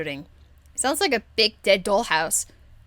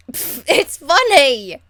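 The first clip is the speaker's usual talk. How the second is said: laughing protest; 5 semitones higher, 7 dB louder, slower than usual. Real, not acted. Defending her joke, still laughing.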